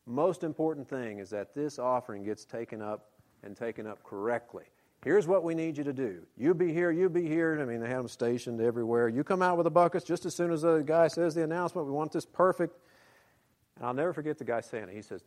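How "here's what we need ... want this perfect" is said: high, loud bossy orders; bossy instructor voice. Retold or imitated. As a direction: boss the volunteers around. Voicing the offering trainer.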